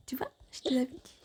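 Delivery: fast unvoiced told-you-so whisper. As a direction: whisper the gloat.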